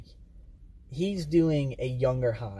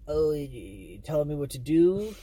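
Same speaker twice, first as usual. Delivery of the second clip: sassy droid. Retold or imitated. Mocking the rude droid L3 talking back to Lando. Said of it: "She's just overly just".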